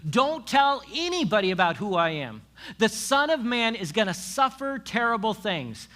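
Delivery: loud, high, emphatic warning. Acted. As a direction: warn your followers forcefully. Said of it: "He warns the disciples".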